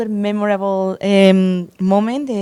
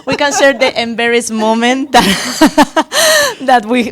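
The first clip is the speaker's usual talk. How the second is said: talking through real giggles; laughing; 5 dB louder, slower than usual. Real, not acted. Interviewer brings up an embarrassing moment, laughing. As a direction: let laughter break up the words.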